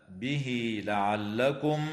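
به لعلكم with the ha of به lengthened into a two-count ee; connected ha. Shown as a demonstration. Teacher showing the connected ha. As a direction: say بهي لعلكم slowly, stretch the ee. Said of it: "وتوصل الهاء".

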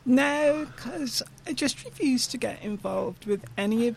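loud, emphatic refusal; indignant. Real, not acted. Refusing shows that paint Liverpool badly, loud and indignant.

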